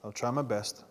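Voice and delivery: ordinary talk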